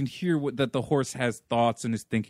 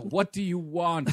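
high, slow put-on animal voice; mock reluctant reply; grumbling horse; 7 semitones higher than usual. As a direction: answer as a put-upon talking horse. Voicing the horse answering the call.

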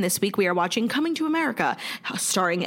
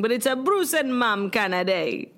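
a light put-on British accent; half-hearted British voice; mock British accent; 2 semitones higher than usual. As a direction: play at sounding British. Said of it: "Mine was just British".

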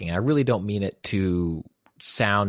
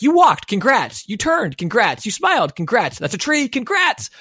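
sing-song game praise; 12 semitones higher, 4 dB louder than usual. Pretend. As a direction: chirp it like a needy game. Mocking a clicker game's praise.

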